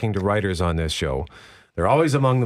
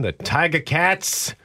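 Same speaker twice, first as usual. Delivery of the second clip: put-on slow, drawn-out Tiger Cats in a loose down-east Canadian accent, pitched up; vague down east accent. Radio host hyping the Hamilton Tiger Cats game in a vague down-east Canadian accent. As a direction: announce the Hamilton game in a half-made-up eastern Canadian accent. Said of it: "not really sure what that accent was that I was just doing".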